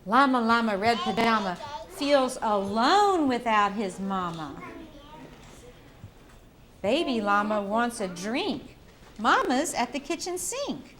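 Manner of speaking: slow, sing-song storybook reading; reading to a toddler. Acted. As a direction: read it gently to little kids. Reading picture book to children.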